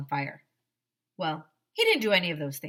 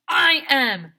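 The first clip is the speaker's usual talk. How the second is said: loud, higher answer; villain shouting back, louder; shouted reply; 6 semitones higher, 12 dB louder than usual. A narrator's reading. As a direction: boom it back at him. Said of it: "shouted Doctor Carbles".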